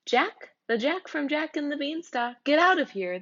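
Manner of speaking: rising, outraged disbelief; indignant surprise. Acted. Child objects to Jack crashing the story, indignant. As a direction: shoo the wrong character away.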